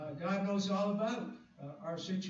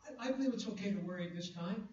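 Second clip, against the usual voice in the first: imitating a worrier; 4 semitones higher than usual. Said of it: "We try to justify worry".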